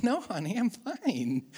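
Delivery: fake-fine reply to the wife; a hint of forced cheer hiding anger; passive-aggressive. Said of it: "That's very passive-aggressive".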